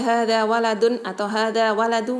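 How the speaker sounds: hadza waladun said without the lam; quick wrong pronunciation; wrong reading demo. Shown as a demonstration. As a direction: show the mistake, dropping the al. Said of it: "tidak boleh".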